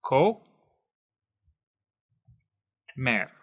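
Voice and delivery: "co, mer" with a long gap between; broken into syllables. Shown as a demonstration. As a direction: sound out "co", pause, then "mer". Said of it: "break it apart into the different syllables".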